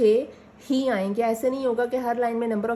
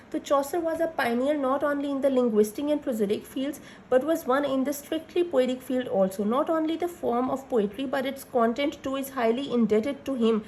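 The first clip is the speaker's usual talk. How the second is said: slow dictation; much slower than usual. Acted. Dictating notes slowly.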